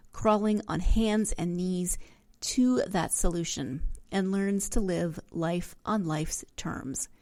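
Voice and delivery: measured, clearly phrased reading of a book description; book blurb read-aloud. Real, not acted. Reads out the book's description.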